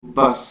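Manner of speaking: "बस" with the final s carried on; trailing wave. Shown as a demonstration. Teacher showing the wave after a word, lingering "बस". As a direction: let the s of "बस" linger. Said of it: "बस के आगे देखिए एक लहर चलती है".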